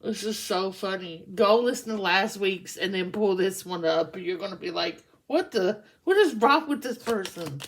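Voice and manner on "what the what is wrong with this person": higher, louder mock disbelief; played-up exasperated question; baffled outrage. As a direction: react as if this person is nuts. Acting viewer's baffled reaction.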